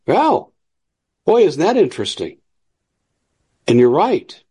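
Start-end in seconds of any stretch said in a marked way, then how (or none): 0.1-2.4 mock listener. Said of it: "And you're saying".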